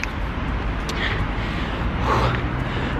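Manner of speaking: long unvoiced panting breath; breathless sigh. Real, not acted. Out of breath walking up the street, heavy exhale. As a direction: puff out air after walking uphill. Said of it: "This is how out of breath I am".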